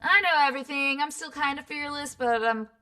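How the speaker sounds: put-on know-it-all teen bravado, slightly nervous by the end; snarky teenager. Coach acts out teenagers for voiceover students, snarky. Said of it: "teenagers are a little bit more snarky".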